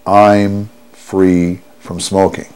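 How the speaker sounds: slow, firm "I'm free from smoking" with weight on "I'm"; forceful, enthusiastic. Shown as a demonstration. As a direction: state "I'm free from smoking" slowly, as a promise. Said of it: "forcefully and enthusiastically say".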